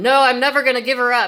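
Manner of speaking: very angry, heated, loud, fast furious outburst. Citing an example of what the narcissist said, imitating a very angry tone. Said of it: "he's got that very angry tone".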